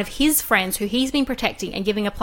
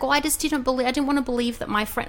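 mock whiny excuse; 4 semitones higher, faster than usual. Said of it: "And he's just like".

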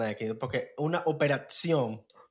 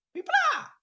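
very high squeaky "pipla" shot; gunshot imitation.

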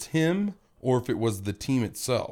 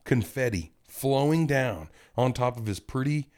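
guided visualization; 3 semitones lower than usual. Pretend. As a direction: talk them into picturing it. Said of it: "close your eyes".

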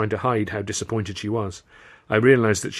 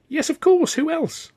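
very high, louder eager reply; excited assurance; 4 dB louder, slower than usual. A narrator's reading. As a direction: reassure her in a burst of enthusiasm. Eagerly persuading her to join.

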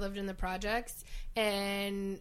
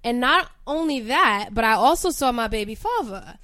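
bird voice; 2 semitones higher, 5 dB louder than usual. Pretend. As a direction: perform the tough girl from the block. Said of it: "I put on a bird voice".

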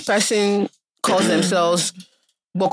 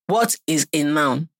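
teacher voice; 4 semitones lower, slower than usual. Retold or imitated. Imitating teacher in primary school.

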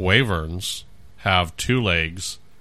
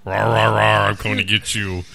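dinosaur voice; 2 semitones higher than usual. Pretend. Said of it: "It's a T-Rex with wings".

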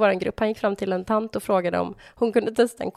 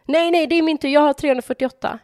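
mild mock indignant man; 6 semitones higher, 5 dB louder than usual. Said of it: "kommer den här mannen och bara".

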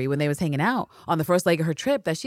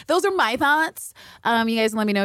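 much higher, slowed, cheeky; sing-song sign-off; 8 semitones higher than usual. Real, not acted. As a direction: wrap up with a flourish. Playful sign-off.

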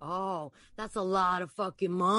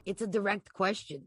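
Anthony, firm. Acted.

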